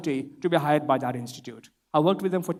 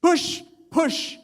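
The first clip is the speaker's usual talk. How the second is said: mock shout; 10 semitones higher, much slower than usual. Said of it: "I keep hearing you shout".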